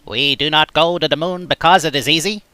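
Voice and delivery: lightly voiced Kennedy; mild Boston Kennedy voice; Kennedy impression. Shown as a demonstration. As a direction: deliver it like a Kennedy speech. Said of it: "I'm trying to do Kennedy".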